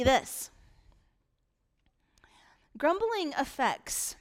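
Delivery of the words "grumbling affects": slow breathy whisper. Shown as a demonstration. Preacher whispering a warning to the congregation. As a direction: lean in and whisper it. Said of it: "whispered point in sermon".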